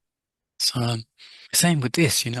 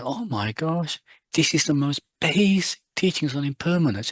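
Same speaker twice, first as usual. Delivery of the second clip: retold shouting teacher; 3 semitones higher than usual. Teacher scolds his long-time students, half-shouted. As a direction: berate students for being surprised by impermanence. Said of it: "I'm shouting".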